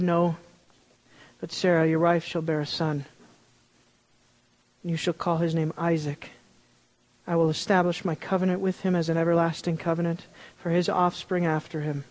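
a calm, patient God correcting Abraham; voicing God gently.

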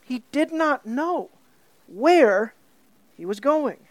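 slow, deliberate "He did not know", then "where" set apart; stress on the key words. Shown as a demonstration. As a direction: punch "where" on its own between pauses. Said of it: "see what he's emphasizing here".

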